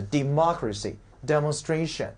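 democracy and demonstration said slowly, stresses set apart. Shown as a demonstration. Teacher comparing two words for the class, slow "democracy", "demonstration". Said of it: "注意重音位置".

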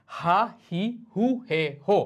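হা, হি, হু, হে, হো one at a time; syllable drill. Shown as a demonstration. Teacher introduces the h sounds, spaced out clearly. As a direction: model হা হি হু হে হো with gaps. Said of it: "তারপর আসছে হা sound".

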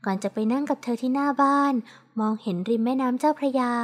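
ordinary delivery

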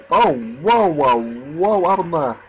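real surprise in swooping whoas; react, taken aback, drawing out each whoa; startled. Real, not acted. Player reacting to something odd in the game, startled.

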